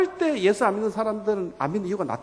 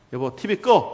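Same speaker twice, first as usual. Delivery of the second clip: mildly annoyed order, a bit louder; acted spousal irritation; irritated wife; 5 dB louder, slower than usual. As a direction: play a nagging wife, lightly irritated. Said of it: "막 화를 내고".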